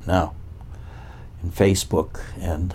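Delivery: ordinary talk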